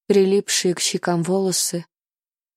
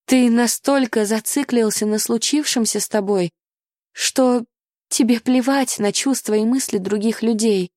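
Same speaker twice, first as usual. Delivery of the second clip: impassioned heroine; 4 semitones higher than usual. Acted. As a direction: make him finally hear you. Charlotte's passionate reproach.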